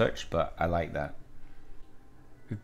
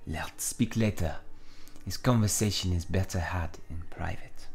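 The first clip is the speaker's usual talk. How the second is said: Villanelle; 3 semitones lower, 4 dB quieter than usual. Acted. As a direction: put off the talk in a French accent. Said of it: "gonna give Villanelle a French accent".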